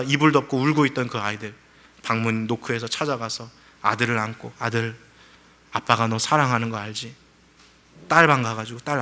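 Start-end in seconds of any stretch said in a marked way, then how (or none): 4.6-7.1 softer, lower loving words; a father quietly reassuring his frightened son; tender father. Retold or imitated. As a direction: hug your scared son with your voice.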